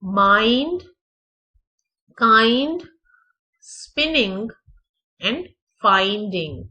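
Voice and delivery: स्पिनिंग with a short i, माइंड and काइंड with ai; finding with an ai glide; odd-one-out test words read aloud; careful word demo. Shown as a demonstration. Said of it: "स्पिनिंग की sound फर्क है".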